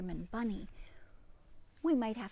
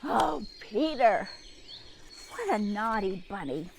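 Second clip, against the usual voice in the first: fond scolding; 4 dB louder than usual. Real, not acted. Gentle scolding of Peter.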